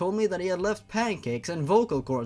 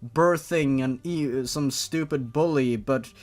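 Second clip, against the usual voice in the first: louder, higher ranting outrage; exasperated rant; 4 semitones higher, 5 dB louder than usual. Real, not acted. Reader venting at the fanfic about why Shayla spares Jeff, loud and exasperated. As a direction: vent at the story like you can't believe it.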